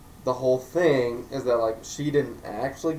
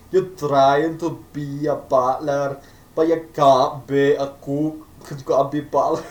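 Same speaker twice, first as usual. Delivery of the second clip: barrel of crawfish voice; 2 semitones higher, 8 dB louder than usual. Acted. Father scolding son about being a cook, gruff mock voice. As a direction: growl like a gruff dad, badly. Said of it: "I sounded like a barrel of crawfish".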